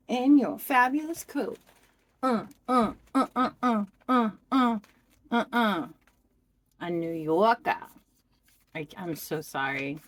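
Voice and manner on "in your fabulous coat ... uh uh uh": put-on New York accent. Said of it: "I have no right doing that accent".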